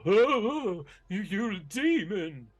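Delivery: high, loud, stammering cry; terrified dwarf. Acted. Frightened dwarf backing away from a supposed demon, terrified high wail. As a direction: cry out in panic as you back away.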